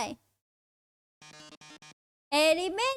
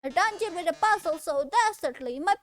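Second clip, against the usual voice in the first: higher, hammed-up dramatic host; theatrical showman voice; 3 semitones higher than usual. Game host bemoaning the dungeon, theatrical. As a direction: melodramatic lament over his trapped love.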